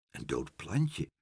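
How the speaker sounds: soft, slow, low echoed question; quiet incredulity; disbelieving echo. A narrator's reading. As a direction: repeat it slowly in dismay, rising at the end. Pen echoes the disappointing news.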